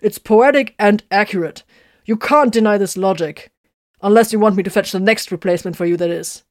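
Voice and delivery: loud, firm and final; firmly. Acted. Tiberius firmly tells the machine spirit its name. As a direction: lay down the law. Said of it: "Tiberius said firmly".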